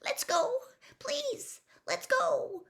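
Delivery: high, frightened begging; terrified plea. A narrator's reading. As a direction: beg him to leave, scared. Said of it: "high-pitched and terrified voice".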